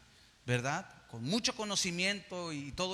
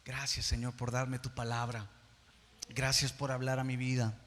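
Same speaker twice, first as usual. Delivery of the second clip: hushed, intimate prayer of gratitude; 5 semitones lower than usual. Acted. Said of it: "digas eso".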